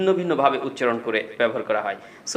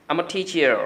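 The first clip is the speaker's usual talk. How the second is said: American 'teacher', final r voiced; lightly American, r-coloured end on 'teacher'; American accent; 2 semitones higher, much slower than usual. Shown as a demonstration. Repeating the American version for learners, American accent. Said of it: "আবার American একজন ব্যক্তি".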